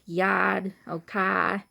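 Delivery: Boston accent with the R dropped in "yard" and "car". Shown as a demonstration. Vlogger showing how Boston people talk, Boston accent. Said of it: "or Boston," y-, you know, they kinda say".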